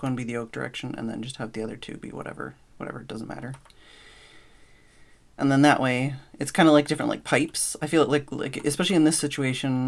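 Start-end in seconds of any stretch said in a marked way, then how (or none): 5.4-9.9 panting a little between phrases; out of breath. Real, not acted. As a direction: still winded and breathing hard. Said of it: "Sorry, I'm still catching my breath".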